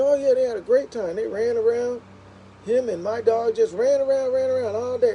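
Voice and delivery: high, bright retelling of the neighbor; imitating the neighbor's breezy report; mock cheerful neighbor.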